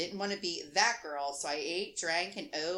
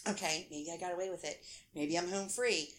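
quiet hopeful murmur; half under the breath, hoping; hushed; 2 semitones lower, 6 dB quieter than usual. Retold or imitated. Inner thought, hushed hope.

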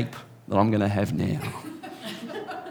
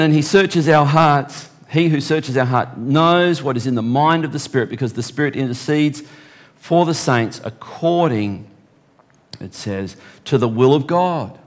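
preacher reading Romans to the church; scripture reading; 2 semitones higher than usual. Acted. Reads scripture aloud.

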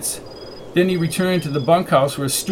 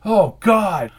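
higher, shocked outcry; horrified cry; 5 semitones higher, 4 dB louder than usual. A narrator's reading. Aubrey sees the bleeding man, horrified. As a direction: cry out in horror.

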